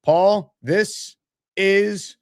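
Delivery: lively announcer-style host delivery; showy host thanking a donor on air; on-air shout-out. Acted. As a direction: give a punchy live shout-out to a supporter. Hosts a live on-air shout-out.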